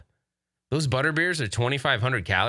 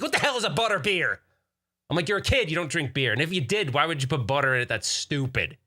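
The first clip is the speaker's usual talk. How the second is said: mock exasperated dad; 4 semitones higher than usual. Dad scolding kids.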